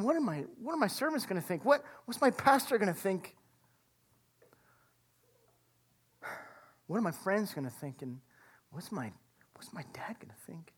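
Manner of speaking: worried murmur fading to a whisper; anxious inner voice. Retold or imitated. Ashamed son thinking about facing home, sinking to a whisper. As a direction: voice the shame as a hushed inner fear.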